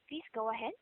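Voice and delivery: ordinary talk, nothing marked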